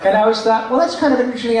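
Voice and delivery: high, shy cartoon kid; high-pitched kid character voice; Carl Weezer. Shown as a demonstration. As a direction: muse aloud as a small, awkward boy. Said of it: "the great thing about Carl Weezer".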